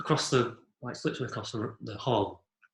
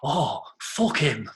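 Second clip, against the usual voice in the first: put-on dismissive boyfriend; 3 semitones higher, much slower than usual. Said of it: "I heard him going".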